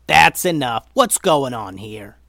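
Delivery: loud demand for order; loud, exasperated confrontation; yell. Acted. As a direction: shout it, then stretch out the question. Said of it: "yelled Momo".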